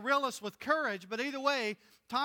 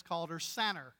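Southern drawl; 3 semitones lower than usual. Shown as a demonstration. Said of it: "Southern drawl woman that she is".

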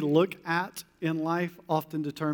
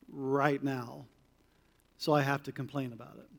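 inner voice; 4 semitones lower, 6 dB quieter than usual. Retold or imitated. Preacher voicing a complainer's inner thoughts, hushed. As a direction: lower and much softer, almost confiding. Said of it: "I am in essence saying".

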